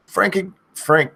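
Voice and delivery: high yelled name; screamed name. Acted. Streamer yelling a viewer's name, high yell. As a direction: call it out as a big yell. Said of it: "I've said your name twice".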